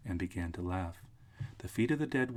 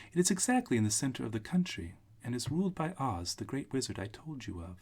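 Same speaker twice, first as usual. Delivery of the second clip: put-on little old witch; 4 semitones higher, 3 dB louder than usual. Witch figure, high voice.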